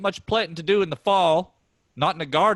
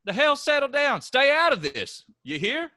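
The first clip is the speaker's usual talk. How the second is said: angry; 10 semitones higher than usual. Acted. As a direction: snap it back at your brother. Brothers quarrel, Ray furious.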